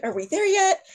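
high-pitched imitation of a fretting mom; mock freaking out. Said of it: "My mom was in the back seat freaking out".

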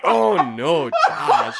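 mock dismay. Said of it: "That was like".

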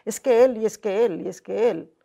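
mock victim whine. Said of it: "yo vivía como víctima".

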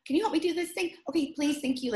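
impatient woman. Retold or imitated. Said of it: "this impatient middle-aged woman who's like".

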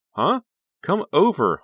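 very high, loud coaxing; insistent, high-pitched nudge; urging. A narrator's reading. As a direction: press them eagerly. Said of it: "Honey urged".

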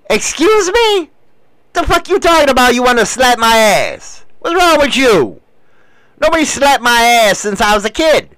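a half-acted affronted rant; mock indignant outburst. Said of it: "I'm like".

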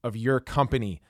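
polished podcast sponsor read, key words punched. Acted. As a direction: read the sponsor copy to listeners, emphatic at the start. Host reads sponsor ad.

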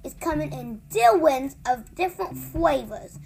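opinionated giant. Acted. Giant lecturing Sophie on human beans, opinionated. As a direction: play an emphatic giant laying down the facts. Giant character in read-aloud story.

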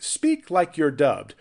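imagined director. Retold or imitated. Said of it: "it's almost like".

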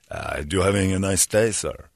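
lightly imitated smooth attendant; courteous question, dropping away at the end; beautiful speaking voice. Attendant to a guy in the bathroom, beautifully spoken. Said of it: "He's got a beautiful speaking voice".

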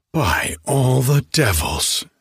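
slow, relishing exclamation; enthusiastic exclaim. Acted. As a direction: savour the find with delight. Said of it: "exclaimed Solling in anatomical enthusiasm".

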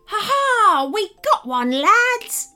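loud, high gleeful pirate shout; shouting pirate captain. A narrator's reading. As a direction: bellow it in triumph. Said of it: "shouted the captain".

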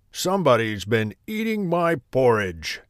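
gruff, growled bear voice; growling Daddy Bear. A narrator's reading. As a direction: growl out the complaint. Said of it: "he growled".

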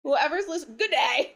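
bad attempt at an Australian accent. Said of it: "what's an Australian accent?".

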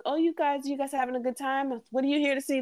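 put-on high, bubbly hello to little kids; talking to little girls in the theater, excited and high; excited greeting. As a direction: chirp it at a group of excited girls. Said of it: "And I was like".

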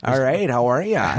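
ornery Swede. Acted. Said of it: "Just ornery".

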